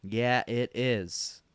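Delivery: slow, stretched-out assurance; drawn-out confirmation. Acted. Reassuring amazed Grandma about the microwave, drawn out. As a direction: draw each word right out.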